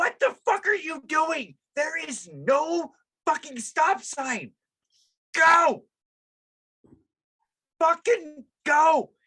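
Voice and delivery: put-on very high, furious scream. Recalling screaming in the car at a driver stopping without a sign: retelling screaming in the car. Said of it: "literally screaming in my fucking car".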